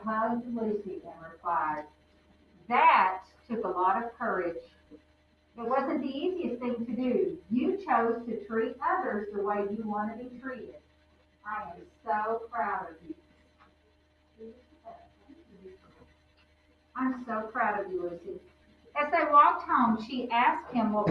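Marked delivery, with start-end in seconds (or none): 2.7-14.5 tender praise. Acted. Grandfather praising gently. 17.0-18.4 tender. Acted. Repeats praise tenderly.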